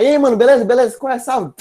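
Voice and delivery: loud, high "ei mano" buddy call; street slang greeting. Retold or imitated. Voicing street buddies greeting.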